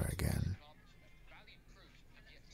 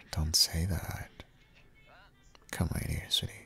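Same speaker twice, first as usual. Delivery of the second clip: tender whisper. Acted. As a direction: hush them gently, up close. Comforting a sad partner.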